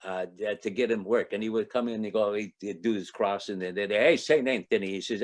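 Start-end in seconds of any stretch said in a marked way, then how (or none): 3.9-4.9 lightly put-on Italian accent. Little Italian guy praying to Saint Anthony, Italian accent. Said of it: "can we do accents now?".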